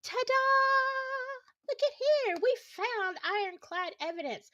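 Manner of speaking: a hammed-up magician's reveal; mocking ta-da. Streamer mimicking police showing off the bullet, sarcastic. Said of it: "and say".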